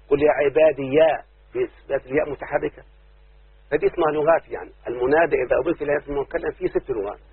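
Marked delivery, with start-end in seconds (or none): 0.1-1.2 slow recitation. Shown as a demonstration. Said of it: "باثبات الياء ساكنه".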